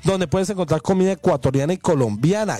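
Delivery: upbeat restaurant ad read; radio ad read. Acted. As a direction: sell it like a live radio spot. Host reads restaurant ad.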